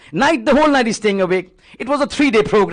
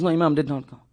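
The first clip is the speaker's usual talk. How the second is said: weeping; 8 semitones lower, 7 dB quieter, faster than usual. Acted. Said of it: "He opens the door weeping".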